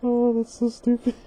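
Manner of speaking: high and loud through giggles; laughing. Real, not acted. Reader cracking up, high laughing. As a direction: squeal it out between laughs. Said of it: "I don't know why I'm laughing".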